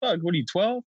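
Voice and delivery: hammed-up villain snapping back at Spider-Man; mock angry villain. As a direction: squeal it like an offended teen. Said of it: "he's like".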